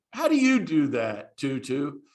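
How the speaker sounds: playful retold retort; smart aleck. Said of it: "being a smart aleck".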